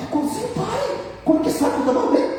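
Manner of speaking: son's amazement. Retold or imitated. Son amazed at father's voice.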